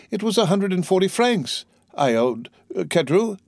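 put-on high-pitched dismayed young man; crying out. A narrator's reading. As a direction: protest in disbelief, without real shouting. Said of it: "cried Dante".

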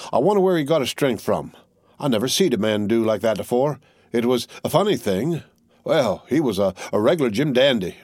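a plain soldier puzzling over a death; wondering tattered soldier. Acted. Tattered soldier muses over the corpse, mildly puzzled.

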